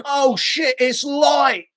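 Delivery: high, hammed-up excited shout; mock screaming. Imitating her running screaming through the cave, high mock shout. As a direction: holler it out, imitating a reckless runner. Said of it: "screaming through this".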